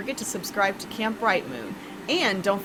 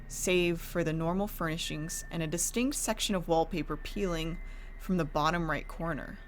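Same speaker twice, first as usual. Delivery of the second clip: hushed, eerie storytelling; 2 semitones lower than usual. A narrator's reading. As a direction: narrate a gothic horror tale. Horror story narration with music.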